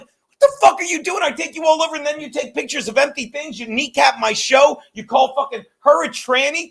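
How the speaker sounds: re-enacted exasperated tirade, pitched high; insane-looking rant. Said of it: "And I look insane".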